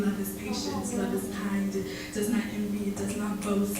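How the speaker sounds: romantic slam poem reading; spoken word love poem. Acted.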